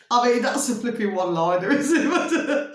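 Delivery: fast, giggly remark; chuckling at the joke; laughing. Real, not acted.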